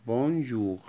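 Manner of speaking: بونجور with a zh sound; French bonjour. Shown as a demonstration. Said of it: "من أنواع التحية برضو بونجور".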